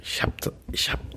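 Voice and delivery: whispered aside about the recorder; real whisper explaining the recorder. Real, not acted. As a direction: whisper it close to the mic.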